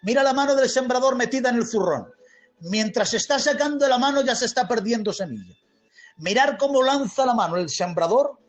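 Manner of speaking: animated pulpit storytelling; lively, emphatic sermon delivery; fervent preaching. Real, not acted. Preaches parable with force.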